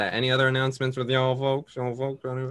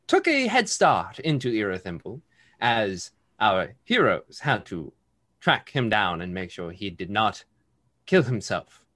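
story narration; 3 semitones lower than usual. Acted. GM recap narration.

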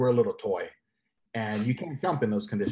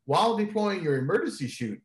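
rising higher and higher, laughing through it; mock instructor warning; 8 semitones higher than usual. Jumper retelling training: mock instructor warning, climbing higher. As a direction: ham up the instructor's dead-serious warning, climbing in pitch.

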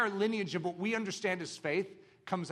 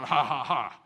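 laughing; 6 semitones lower than usual. Acted. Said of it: "I'm the one going".

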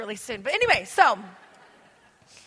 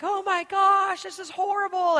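mock horror, high and louder; hammed-up disgust; horrified onlookers; 7 semitones higher, 4 dB louder than usual. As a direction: squeal it like a disgusted viewer. People horrified at food show.

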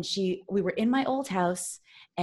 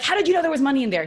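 spooked dad; 8 semitones higher, 8 dB louder, much faster than usual. Retold or imitated. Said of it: "He's like".

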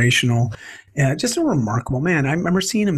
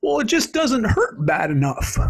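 put-on slow, higher old-timer drawl on the word hurt; old man punchline; 6 semitones higher than usual. Old man answers the young man, slow deadpan old voice. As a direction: deliver the old man's answer slowly, deadpan.

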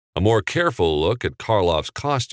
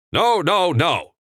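much higher, louder no; yelled loudly; 11 semitones higher, 4 dB louder than usual. A narrator's reading. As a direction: shout it down in anger. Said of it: "a man yelled loudly".

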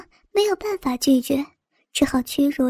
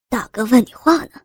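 thug voice; 4 semitones lower than usual. Acted. Thug pressing a captive.

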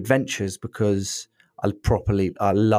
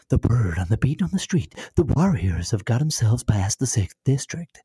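pirate radio DJ. Retold or imitated. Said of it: "I feel like the lady on the radio".

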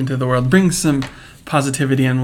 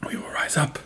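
rallying speech. Pretend. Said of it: "rallying speech to followers".

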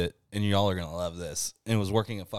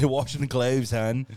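exaggerated Baltimore vowels; Baltimore accent; 2 semitones higher than usual. Host echoing friend's Baltimore line, Baltimore accent. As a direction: mimic a Baltimore local saying "hon". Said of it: "the Baltimore one".

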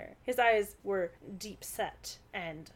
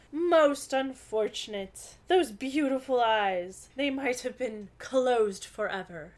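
dramatic actor; 2 semitones higher, 3 dB louder than usual. Acted. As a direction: mourn it like a stage tragedian.

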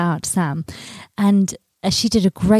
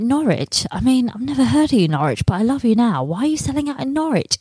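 1 baffled delight; 5 semitones higher than usual. Retold or imitated. Incredulous voiced thought about sales.

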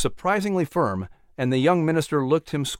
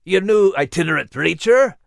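higher, louder huffy question; 5 semitones higher, 6 dB louder than usual. A narrator's reading. Uncle questions Sarah about the new preacher, in a huff. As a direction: ask it with an indignant huff. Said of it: "Uncle Patrick asked with a huff".

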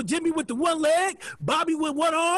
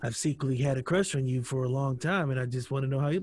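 hesitant confession; 11 semitones lower, 6 dB quieter than usual. Retold or imitated. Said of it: "He was like".

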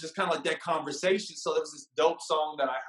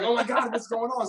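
lightly mimicked alarm, higher pitch; imagined girlfriend's voice; 5 semitones higher than usual. Retelling how date sounded in his head, mock alarm. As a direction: replay her startled reaction, mildly exaggerated. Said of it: "it was kinda how she sounded in my head".

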